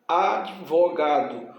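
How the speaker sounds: slow "Advogado", broken after the D; split into syllables. Shown as a demonstration. Teacher showing D joins the earlier syllable, slow split "Advogado". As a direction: draw out "Advogado" as ad, vo, gado. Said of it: "vem pra sílaba anterior".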